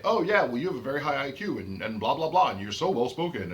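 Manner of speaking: high, lilting mock praise; mock compliments. Others patronizing the speaker with cute praise, mock complimentary. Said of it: "cute things like that".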